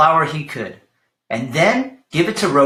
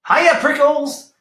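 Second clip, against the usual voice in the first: much higher, slow stretched call; shouted; 11 semitones higher, 4 dB louder, slower than usual. Acted. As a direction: holler the nickname teasingly. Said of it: "she shouted".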